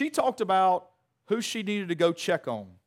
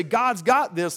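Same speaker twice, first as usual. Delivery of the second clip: glib mock phrase; 4 semitones higher, 7 dB louder, slower than usual. Shown as a demonstration. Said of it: "We create this awful mess and wanna say".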